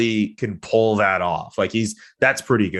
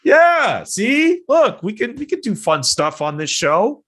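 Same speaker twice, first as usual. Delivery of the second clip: booming wrestler boasts; 4 dB louder than usual. Pretend. Hyping the show after brainstorm.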